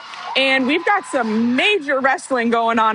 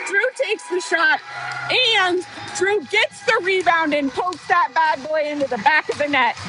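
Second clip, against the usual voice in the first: higher, still buzzing from the goal; worked-up commentary; 6 semitones higher than usual. Real, not acted. Commentator recapping the goal for listeners, excited and higher. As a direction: call the replay still thrilled. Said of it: "I'm too worked up".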